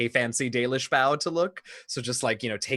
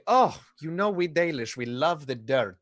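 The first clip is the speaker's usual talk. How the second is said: put-on Dalish elf; 3 semitones higher than usual. Elf picks up thrown cookie to reply, mildly hammed-up. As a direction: play it up a little as the elf. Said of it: "pick it up and say".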